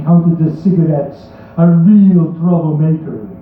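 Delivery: hammed-up, vaguely foreign Hollywood bad accent; poem read in an unplaceable fake accent. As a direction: recite it in a deliberately terrible accent. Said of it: "read it in a very bad accent".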